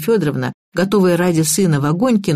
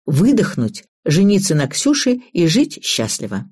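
ordinary delivery, nothing marked

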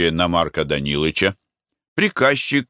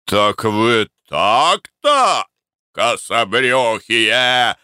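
booming shout; much slower than usual. A narrator's reading. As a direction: bellow it down at them. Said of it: "зычным голосом крикнул". (хозяин зычно кричит на рабочих)

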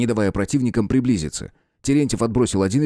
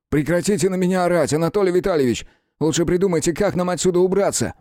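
higher, heated snap back; irritated retort; 8 semitones higher than usual. A narrator's reading. Rudnev snapping back at the detective, heated. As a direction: tell him to stop shouting.

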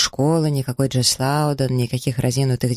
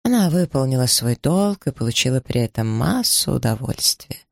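usual speaking voice

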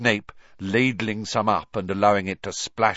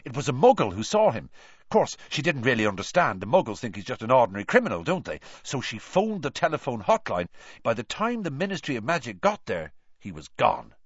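quick, eager gossip; excited; 5 semitones higher, faster than usual. Acted. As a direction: rush it out with excitement. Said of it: "who looked excited".

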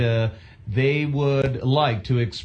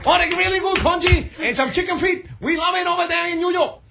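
put-on higher, nasal New York accent sliding into Chinatown talk; 8 semitones higher than usual. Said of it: "Can you do a, a ngongo New York accent".

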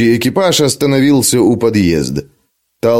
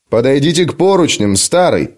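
fervent; 2 semitones higher than usual. Acted. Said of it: "горячо воскликнул он".

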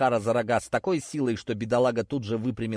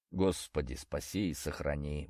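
low, soft, resigned prayer; doomed exhale; 9 semitones lower, 9 dB quieter than usual. A narrator's reading. Hero quietly prays, seeing the strange cars. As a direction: breathe it out, already doomed. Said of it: "выдохнул я обречённо".

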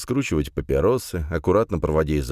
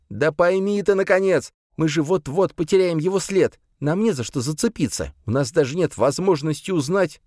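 agitated rant; 12 semitones higher than usual. Acted. Салиман keeps ranting.

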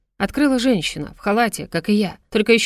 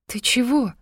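slow, halting, scared; frightened question; 4 semitones higher, slower than usual. A narrator's reading. Polya asks the wounded medic, frightened and halting. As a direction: stammer it as he starts to fall. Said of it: "спросила она испуганно".

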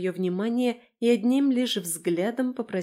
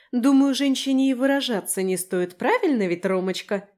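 high, louder, huffy retort; pitched-up, scornful needling; snorting sarcasm; 5 semitones higher, 6 dB louder than usual. A narrator's reading. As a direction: toss it at him with a snort. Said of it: "фыркнула она".

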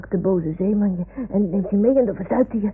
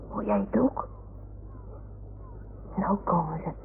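whisper; 9 dB quieter than usual. Acted. Listening for distant calling.

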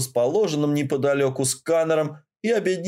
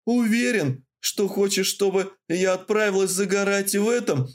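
slow theatrical villain menace; 7 semitones higher than usual. A narrator's reading. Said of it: "Зловеще протянула я".

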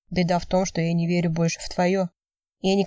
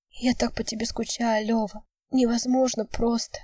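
whispering through tears; 4 semitones higher than usual. A narrator's reading. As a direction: hold back tears and murmur. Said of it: "шептала Вика, глотая слёзы".

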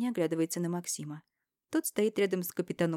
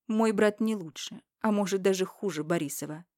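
bitterly. Acted. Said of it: "С горечью добавляю".

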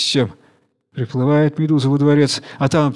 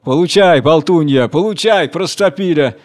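louder shouts with each blow; angry shouting; 2 semitones higher, 5 dB louder than usual. Acted. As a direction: hurl it at the chatterbox as you strike. Sea creatures beating the jellyfish.

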